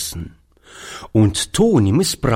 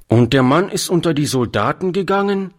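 sullen; 7 semitones higher, faster than usual. A narrator's reading. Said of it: "fuhr Toni etwas missmutig fort".

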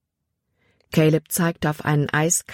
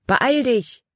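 urgent call; 8 semitones higher than usual. Acted. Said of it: "rief Caleb".

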